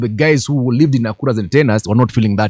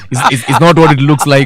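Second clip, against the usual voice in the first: a hint of a guilty man pleading; mock cheater excuse; 3 semitones higher, 3 dB louder than usual. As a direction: play the caught cheater lightly.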